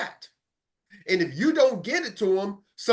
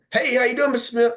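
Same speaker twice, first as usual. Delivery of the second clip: cold call greeting; 5 semitones higher than usual. Retold or imitated. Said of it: "some of y'all can go like this".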